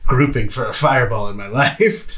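laughing with delight. Real, not acted. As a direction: break into laughter. Delighted by a perfect fireball target.

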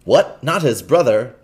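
loud, slow pained groan. Acted. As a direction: groan in fake despair. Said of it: "groaned Hugo".

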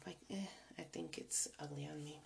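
hushed confession; whispering. Real, not acted. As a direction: drop to a whisper. Confiding aside.

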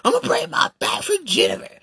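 imitating a guy promising to sacrifice; mocking eager guy. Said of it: "you're sitting there saying".

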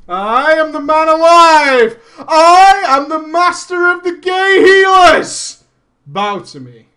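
high, loud, slow triumphant boast; hammed-up victory speech; grand proclamation. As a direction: declare it like a conquering king. Proclaims himself master healer.

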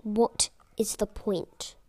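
drawn-out, weary question; slow despair. Retold or imitated. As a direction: stretch it out, hopeless. Despairing retort to the teacher.

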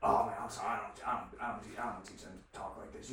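hushed, embarrassed apology, acted out; retold sheepish apology. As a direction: imitate an apologetic dad, softly. Voicing the apologetic dad.

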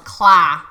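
"Claw" with a flattened, open a; overcorrected claw. Retold or imitated. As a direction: imitate his attempt at "Claw", too open. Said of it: "And he goes".

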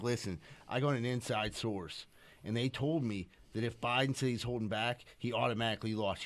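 hushed insider tip. Retold or imitated. Secret tip on phone, prank.

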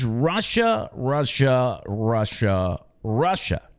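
drawn-out mock refrain, falling away; each word stretched and spaced out; mocking repetition. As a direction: repeat it slowly, mimicking endless coverage. Mimicking wall-to-wall coverage chant.

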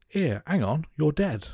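put-on lightly done Cockney officer's accent; mock Cockney accent. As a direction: toss off a casual Cockney "you're dead". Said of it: "that was not a bad accent".

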